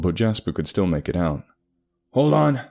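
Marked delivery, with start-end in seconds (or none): 2.1-2.6 yelling. A narrator's reading. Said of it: "Jasper yelled into the walkie-talkie".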